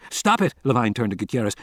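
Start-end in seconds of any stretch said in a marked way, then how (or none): 0.1-0.5 even higher frantic shout; repeating the shout, rising in desperation. A narrator's reading. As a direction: push it further, desperate. Carcass being burned, shouting.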